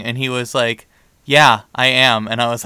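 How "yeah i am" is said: slow, deadpan admission; dry deadpan. Retold or imitated. Date admits his joke in a slow, dry deadpan. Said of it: "that really dry sense of humor".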